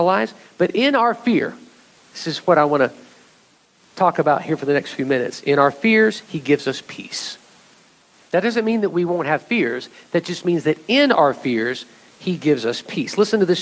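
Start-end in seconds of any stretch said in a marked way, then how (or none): 6.3-7.4 hushed. Acted. Preacher whispering the promise of peace to the church. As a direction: drop to a soft unvoiced whisper. Sermon point said softly.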